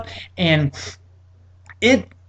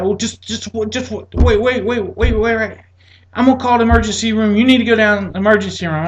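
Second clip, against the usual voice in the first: higher, fast hurried doctor; flustered doctor; 5 semitones higher than usual. Retold or imitated. Doctor hurrying the patient to the ER, higher and fast. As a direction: rush to stop him, then rattle off the plan.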